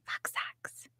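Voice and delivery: whispered aside, trailing to barely audible; hushed, whispery repeat; playful whisper. Real, not acted. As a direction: whisper it, fading almost to nothing. Playful repeat while showing gift socks.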